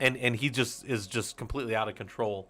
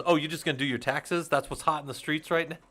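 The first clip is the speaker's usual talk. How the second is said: lightly mocking, a touch higher; mock rapper catchphrase; 5 semitones higher, 3 dB louder than usual. Quoting Chappelle's impression of a rapper to the slacker, mock taunt. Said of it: "and he goes".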